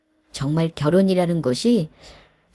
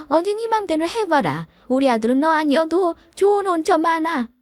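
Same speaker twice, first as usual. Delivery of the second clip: higher, sharp scolding mother-in-law; angry outburst; 7 semitones higher than usual. Acted. Mother-in-law flaring up at the bride, higher angry scolding. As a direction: lash out in offended rage. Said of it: "버럭 화를 내는 겁니다".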